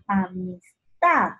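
"Amistad" slow, last syllable TAD stressed long; fuerza en TAD. Shown as a demonstration. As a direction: lean hard on the TAD of "Amistad". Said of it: "¿Dónde lleva la mayor fuerza de voz?". ("Amistad" lento, acento fuerte en TAD)

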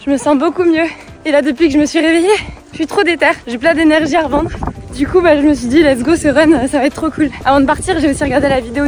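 talking while jogging; while running. Real, not acted. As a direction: speak with a runner's breath. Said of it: "J'essaye de vous parler en courant".

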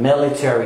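MILITARY with the A fully sounded; American military, ending "tair-ee"; American pronunciation. Shown as a demonstration. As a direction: lean on the "-tary" in military. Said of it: "شايفين بنتك على ال A في الأمريكان".

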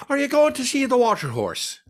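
high, bad Cockney accent as the gift shop woman; hammed-up Cockney woman, pitched high. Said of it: "one of three bad Cockney accents".

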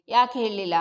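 a betrayed father bursting out; hurt angry cry. Acted. Hurt father confronts his daughter.

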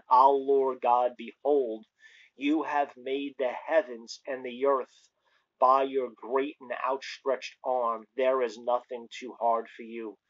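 solemn, emphatic scripture reading. Acted. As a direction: proclaim the verse slowly, with weight. Reads scripture aloud.

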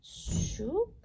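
high little shoop sound; a quick squeaky pickup noise; playful pickup whoosh. Acted. Picking up microbe sound.

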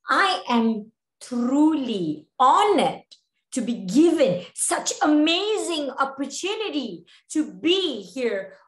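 slow, measured formal address; formal reply. Shown as a demonstration. Replying to the principal about representing Malaysia, formal and slow. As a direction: deliver a stately, honoured acceptance with drawn-out words. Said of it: "You don't reply to your principal like that".

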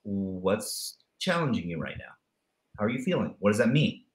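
quiet, reassuring check-in; caring question. Retold or imitated. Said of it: "I go".

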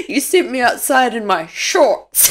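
a touch of his voice; lightly mock his complaint; mild mock whine; imitating husband. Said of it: "He's like".

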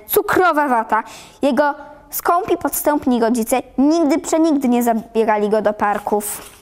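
ordinary delivery

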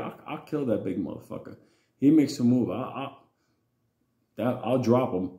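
low, hushed threat; father's threat. Retold or imitated. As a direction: threaten under your voice as the father. Father threatens big man, retold.

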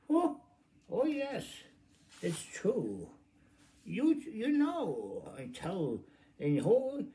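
very high, loud burst of delight; excited outburst. Real, not acted. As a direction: squeal it out, high and thrilled. Narrator's exuberant aside.

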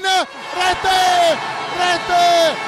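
excited goal call; breathless italian goal commentary. Real, not acted. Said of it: "goal called by commentator".

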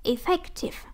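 "Effective" stressed on the middle syllable, FEC; second-syllable stress. Shown as a demonstration. Teacher modelling an adjective for students, stress on second syllable of "Effective". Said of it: "là nhấn âm hai".

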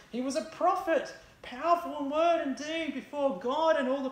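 grieving disciple. Acted. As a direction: recount the crucifixion with anguished disbelief.

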